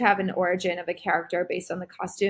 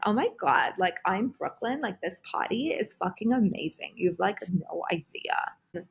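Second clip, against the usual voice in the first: Brooke from Brooklyn. Acted. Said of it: "I had a character named Brooke in Brooklyn".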